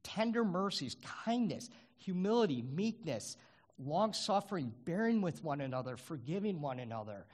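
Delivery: each virtue lifted high and held up with wonder; fervent, rising recital of the virtues. Real, not acted. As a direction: preach the list up high, savoring each word. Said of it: "look at the fruit here".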